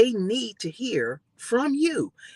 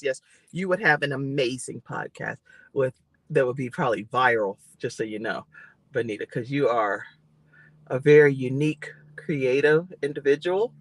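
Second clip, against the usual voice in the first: talking through clenched teeth, a bit lower; words pushed out through teeth like grandma; through gritted teeth; 3 semitones lower than usual. Real, not acted. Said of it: "She, like, talk through your teeth".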